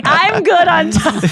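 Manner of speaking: slow, high, airy reporter voice; drawn out like a relaxed interviewer; a reporter with all the time in the world; mock reporter. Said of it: "never has a reporter been like".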